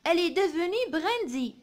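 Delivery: slow, measured model reading; poem read aloud. Shown as a demonstration. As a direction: read it out slowly for pupils to follow. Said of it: "نقراو الشعر هذا مع بعضنا".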